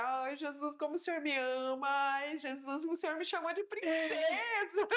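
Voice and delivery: rising, tearful and overwhelmed; grateful weeping to Jesus; crying with joy. Retold or imitated. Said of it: "comecei a chorar já de alegria".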